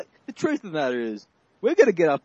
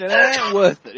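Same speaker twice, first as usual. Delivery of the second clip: louder, punching THAT; louder emphatic repeat; 5 semitones higher, 9 dB louder, slower than usual. Shown as a demonstration. Buddy repeating the line louder for emphasis. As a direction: hammer the word That home.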